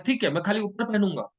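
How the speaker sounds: put-on a toddler bargaining, playful; child's reply. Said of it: "कहता है".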